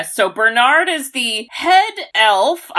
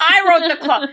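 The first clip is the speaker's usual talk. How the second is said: higher, giggling repeat; laughing echo; 7 semitones higher than usual. Retold or imitated. Friend repeating the Bernard joke, laughing. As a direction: echo the line through laughter. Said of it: "echoing the Bernard quote".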